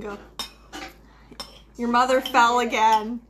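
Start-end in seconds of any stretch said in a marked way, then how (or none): 1.8-3.2 put-on a dad on the phone in a light Southern accent. Dad calling the kids about mom, a hint of Southern accent. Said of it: "I don't know why you're all Southern".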